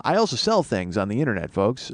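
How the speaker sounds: the S in "sell" and "things" whistles; whistling s. Real, not acted. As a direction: lisp that whistles on each S. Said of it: "boy, that S whistled".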